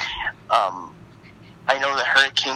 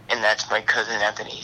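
whispered. Real, not acted. Telling of cousin's death.

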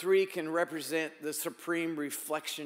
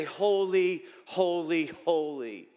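reverent proclamation; 4 dB louder, slower than usual. Shown as a demonstration. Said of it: "but we do say".

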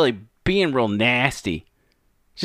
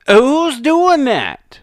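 sarcastic retort; 10 semitones higher, 6 dB louder, much slower than usual. Acted. Mocking the interview clip.

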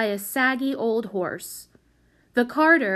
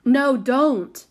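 raised, loud, urgent plea; begging; 5 semitones higher, 7 dB louder than usual. A narrator's reading. Solly trying to stop a scream, begging. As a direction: beg urgently to head it off. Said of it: "begged Solly".

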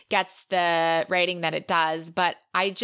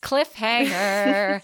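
dramatic cliffhanger; 3 dB louder, much slower than usual. Acted. Teasing next episode's topic.

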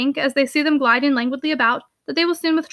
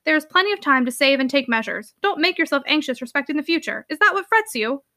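blustering uncle. Acted.

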